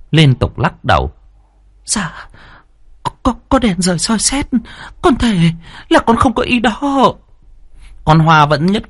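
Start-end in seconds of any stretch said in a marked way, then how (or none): 1.8-7.1 a weeping maid begging the daughter; tearful pleading oath. A narrator's reading. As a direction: swear innocence through tears. Maid swears innocence, crying.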